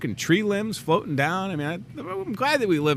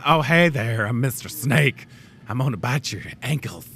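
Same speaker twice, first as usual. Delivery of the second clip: talking snake; 2 semitones lower than usual. Pretend. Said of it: "that's what I feel like snakes".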